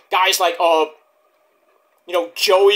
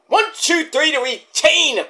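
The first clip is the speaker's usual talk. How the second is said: pinfall count; 7 semitones higher than usual. Retold or imitated. Mimics the referee's pinfall count.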